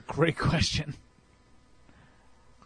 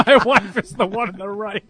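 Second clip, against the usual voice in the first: louder, laughing echo of the punchline; laughing repeat; 3 semitones higher, 5 dB louder than usual. Real, not acted. Co-host echoes the mule photo joke, laughing.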